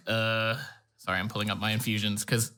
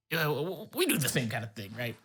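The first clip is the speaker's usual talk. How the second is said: put-on New York accent; faster than usual. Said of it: "a New York accent".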